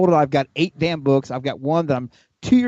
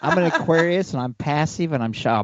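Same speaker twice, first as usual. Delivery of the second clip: mock shy; 3 semitones higher, slower than usual.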